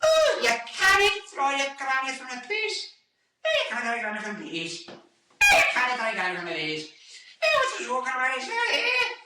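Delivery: high, hammed-up Scottish accent; broad Scottish accent. Shown as a demonstration. Relatives in Scotland talking, exaggerated high Scottish accent. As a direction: push the Scottish accent into caricature. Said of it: "Turns into".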